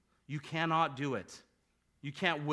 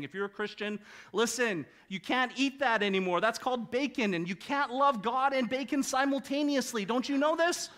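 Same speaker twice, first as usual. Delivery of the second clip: higher, louder preachy scold; mock legalist voice; 6 semitones higher, 3 dB louder than usual. Preacher mimicking church people who ban bacon, mock scolding. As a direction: lampoon the rule-keepers, wagging a finger.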